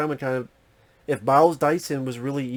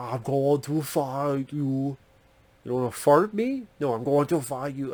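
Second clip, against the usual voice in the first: weak, unconvincing put-on Cajun accent. Describing the eighties cartoon villain Leatherhead, attempting his bad Cajun accent. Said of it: "had that losing an accent".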